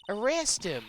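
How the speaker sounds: high-pitched, indignant Texan; hammed-up outraged Texan voice; Texan accent. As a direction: demand it in a put-on Texan twang. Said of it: "trying to do the best Texan accent".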